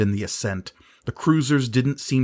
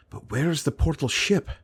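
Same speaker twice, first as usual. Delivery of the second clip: Sisay voice; 6 semitones higher than usual. A narrator's reading. Sisay asks worriedly.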